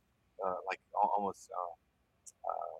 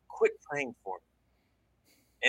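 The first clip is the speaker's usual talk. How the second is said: loud guttural command; 3 semitones higher, much slower than usual. Retold or imitated. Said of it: "really loud".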